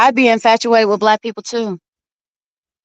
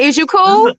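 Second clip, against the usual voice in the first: imitating J P; 6 semitones higher, slower than usual. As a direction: call it out like J P, raised. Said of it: "No, you had it right".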